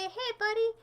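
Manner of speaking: hammed-up needy plea; needy whiny voice. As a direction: beg for attention mockingly. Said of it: "you can just say".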